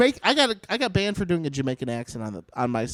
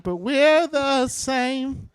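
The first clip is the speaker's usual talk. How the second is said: slow dramatic; 8 semitones higher, much slower than usual. Pretend. Mock profound statement.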